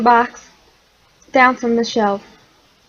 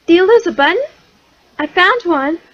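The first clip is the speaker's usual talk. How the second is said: sparrow; 6 semitones higher, faster than usual. A narrator's reading. Sparrow speaks.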